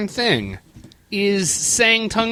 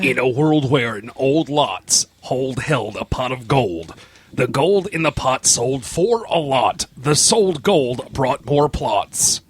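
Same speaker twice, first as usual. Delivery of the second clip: movie trailer voice; 4 semitones lower, slower than usual. Acted. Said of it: "Speak in your best movie trailer voice".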